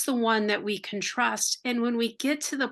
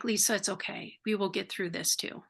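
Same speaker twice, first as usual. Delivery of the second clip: gentle reassurance; 2 semitones lower, 6 dB quieter than usual. Retold or imitated. God comforting Lisa in her retelling, soft and tender. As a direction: hush her worries kindly. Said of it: "he's like".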